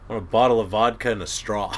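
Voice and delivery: quoting Harold while laughing; can barely hold back a laugh; laughing through a quote. Retold or imitated.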